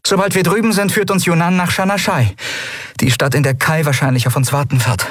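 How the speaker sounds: a hint of forced confidence; Endriel, rallying. A narrator's reading. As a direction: rouse the crew with nervous energy. Endriel rallies crew.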